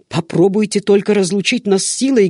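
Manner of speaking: loud, high threat to the guards; threatening. A narrator's reading. Servant threatening the guards who pull him away, loud. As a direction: dare them to separate you. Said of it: "грозился он".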